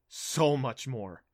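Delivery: slow, eager and hushed. Acted. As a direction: savour each word eagerly. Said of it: "he said eagerly".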